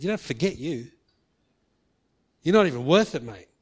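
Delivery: mock exasperated brush-off; exasperated rejection. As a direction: give up on him in a loud huff. Imagined harsh God.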